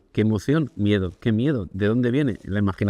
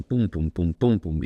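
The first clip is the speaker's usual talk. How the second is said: martillo pilón imitado; 5 semitones lower, slower than usual. Retold or imitated. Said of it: "son como martillo pilón".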